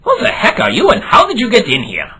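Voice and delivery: shout, caught off guard; startled shout. Acted. Professor startled by voice.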